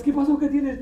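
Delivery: high, urgent mock concern; alarmed questioner. Husband questioning his crying wife. (pregunta aguda y apurada, imitada)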